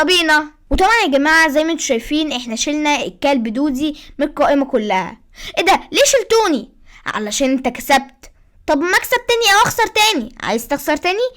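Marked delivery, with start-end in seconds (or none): 5.6-10.3 high-pitched cartoon dog whining; squeaky puppy voice protesting being removed; high dog puppet voice. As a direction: play the little dog, indignant and squeaky.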